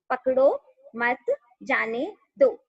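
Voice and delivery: slow, deliberate, each word set apart; example sentence read out. Shown as a demonstration. Teacher showing students how a comma shifts meaning, slow and deliberate. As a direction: read "पकड़ो मत जाने दो" slowly with a clear break after "मत". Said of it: "जैसे एक छोटा सा sentence है".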